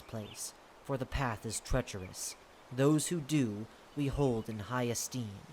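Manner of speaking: lightly deepened, stately ruler; measured, solemn deep voice. Acted. The lord explains the Grove to a human guest, deep voice. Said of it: "Deep voice".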